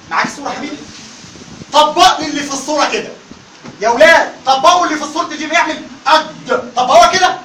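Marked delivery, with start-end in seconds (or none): 6.1-6.7 أج drawn out slowly as a wrong example, transcribed قد; faulty jeem. Shown as a demonstration. Teacher tries the book's tongue picture aloud, faulty drawn-out jeem. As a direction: demonstrate a wrong قد, really a held أج. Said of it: "هل ده صح؟ غلط".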